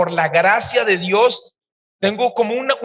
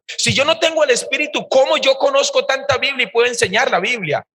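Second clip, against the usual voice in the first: rising, higher, insistent rhetorical questions; impassioned retort; 3 semitones higher than usual. Retold or imitated. Telling the pastor he has the Spirit, fervent rising challenge. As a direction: build the challenge line by line.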